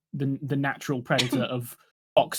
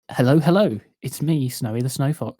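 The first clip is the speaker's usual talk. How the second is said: bright, formal phone-greeting voice; Snowy shows his phone voice, louder and more formal; telephone voice; 5 dB louder than usual. Shown as a demonstration. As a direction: answer like a polite receptionist. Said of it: "I have a telephone voice".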